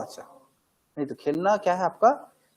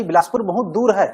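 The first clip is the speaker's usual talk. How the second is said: louder, stretching दूर with feeling; emotional demo; 5 dB louder than usual. Shown as a demonstration. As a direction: show how far it feels. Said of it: "मैं बोलूंगा ना कि भाई". (भाव से, दूर पर ज़ोर)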